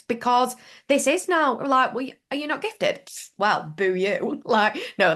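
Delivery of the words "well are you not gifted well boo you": mocking spiritual ego. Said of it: "that's a spiritual ego".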